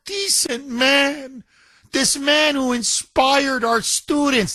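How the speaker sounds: high, slow, wailing mock grief; mock crying. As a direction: ham up a sobbing board member. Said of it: "the board members started to cry".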